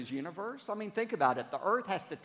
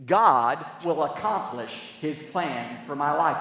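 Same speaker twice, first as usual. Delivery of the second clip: congregation recitation; 3 semitones lower, 4 dB louder, slower than usual. Shown as a demonstration. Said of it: "Would you say that out loud with me?".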